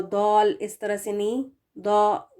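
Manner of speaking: दौल and दौ said with a rounded, thick vowel; wrong heavy dal. Shown as a demonstration. Teacher demonstrates the incorrect thick d. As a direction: show the wrong heavy way of saying दाल. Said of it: "इसकी ठीक नहीं है".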